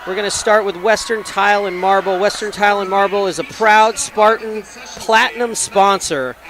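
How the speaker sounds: sponsor ad read; commercial read. Acted. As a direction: read it like a radio ad. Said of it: "Did it sound like a commercial? / I read it like a commercial".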